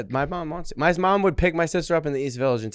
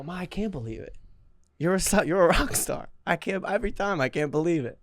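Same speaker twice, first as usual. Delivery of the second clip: mock adoring son; 3 semitones higher, 6 dB quieter than usual.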